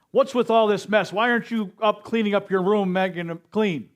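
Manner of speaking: a father barking at his son about his room; scolding parent. Retold or imitated. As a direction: tell off a teenager for the mess.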